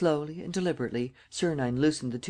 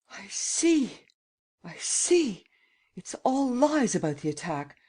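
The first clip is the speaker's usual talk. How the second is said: higher, startled realisation; dismayed gasp; 7 semitones higher, slower than usual. A narrator's reading. Old lady realising the attack was staged, dismayed and high. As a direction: gasp it out as the truth dawns. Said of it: "looked at him in dismay and gasped".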